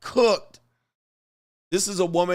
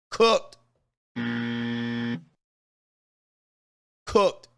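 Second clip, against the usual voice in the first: shouted catchphrase; 3 semitones lower than usual. Acted. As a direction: bark it out like a final ruling. Punchline catchphrase after each red flag.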